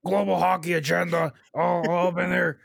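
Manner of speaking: loud mock-angry grumbling; mock anger. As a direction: play along with a hammed-up rant. Joins the mock angry rant.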